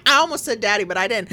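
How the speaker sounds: usual speaking voice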